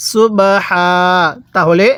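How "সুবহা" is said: সুবহা ending on an open, held "haa"; waqf pausal reading. Shown as a demonstration. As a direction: drop the final n and stretch সুবহা. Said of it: "আমার সাথে পড়ুন".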